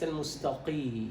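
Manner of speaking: "المستقي" with too thick a qi; over-darken the ق in "المستقي"; over-heavy qaf, wrong. Shown as a demonstration. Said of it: "وليس". (مبالغة في تفخيم قاف "المستقي")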